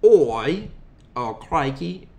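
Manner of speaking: halting, amateur Australian accent; attempted Australian accent. Shown as a demonstration. Co-host tries on request, hesitant Australian accent. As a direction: try out a bad Australian accent. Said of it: "try to do an Australian accent".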